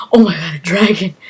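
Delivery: loud breathy whispered gasp of alarm; excited whisper. Retold or imitated. Gamer spots a dragon, startled loud whisper. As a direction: hiss it out like you just spotted a dragon. Controller vibrates, dragon appears.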